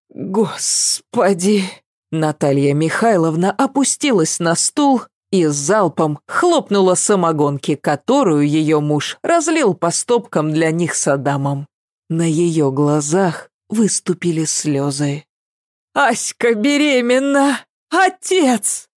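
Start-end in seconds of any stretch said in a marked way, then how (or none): 0.1-1.6 slow drawn-out dismayed cry. A narrator's reading. Mother hearing the news, dismayed. 15.9-18.9 high tearful cry; about to burst into tears; tearful wail. A narrator's reading. Mother wailing to her husband, tearful.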